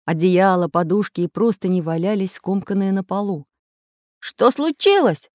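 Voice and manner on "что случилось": high, slow drawn-out outcry; alarmed cry. A narrator's reading. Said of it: "закричал Самоделкин".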